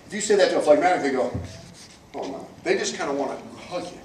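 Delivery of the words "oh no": timid mock reply. Phlegmatic reacts to challenge.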